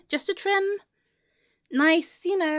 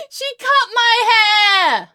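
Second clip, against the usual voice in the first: high, loud cry of horror; outraged wail; 5 semitones higher, 8 dB louder than usual. Acted. Friend hearing about the haircut, outraged wail. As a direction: wail it like a catastrophe.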